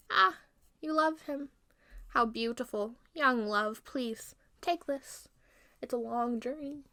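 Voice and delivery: lightly voiced sweet old lady; a hint of a doting old lady; old woman. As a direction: coax gently, like a kindly old woman. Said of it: "Let an old lady feel".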